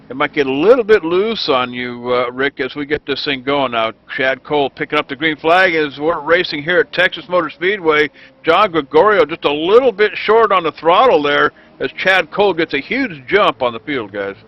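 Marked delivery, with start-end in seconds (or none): 4.1-14.1 quick, lifted play-by-play call; excited race call. Real, not acted. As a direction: call the start with rising excitement. Green flag, race call starts.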